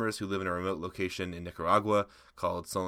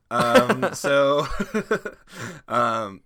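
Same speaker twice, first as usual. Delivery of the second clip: high loud burst of laughter; cracking up mid-sentence; laughing; 7 semitones higher, 10 dB louder, much slower than usual. Real, not acted. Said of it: "I can't read any further".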